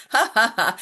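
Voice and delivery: deliberate, spoken-out ha-ha laugh; demonstrated laughter exercise; simulated laughter. Shown as a demonstration. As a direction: fake a laugh on purpose. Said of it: "real and simulated laughter".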